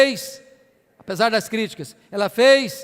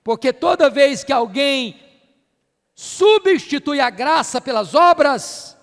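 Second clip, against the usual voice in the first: raised, forceful pulpit delivery; emphatic preaching; 3 semitones higher, 5 dB louder, slower than usual. Real, not acted. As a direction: drive the point home to the congregation.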